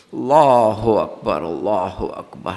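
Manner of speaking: slow, low takbir sinking away; drawn-out takbir. Real, not acted. Preacher's awed exclamation mid-sermon. (آہستہ، ڈوبتی ہوئی تکبیر)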